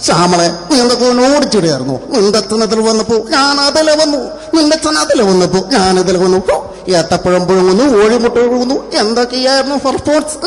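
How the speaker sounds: lightly imitated film comedian; hint of an actor's comic dialogue delivery; Sreenivasan. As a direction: play the comic husband calling Shyamala, then rattling on. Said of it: "Sreenivasan പാട്ട് പാടി വന്നാൽ".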